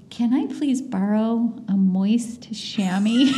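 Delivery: laughing through a quote. Retold or imitated. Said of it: "And he says".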